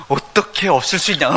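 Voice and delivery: cheeky reply through laughter; laughing. Retold or imitated. Son laughs telling his dad of course he did wrong. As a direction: toss it back laughing.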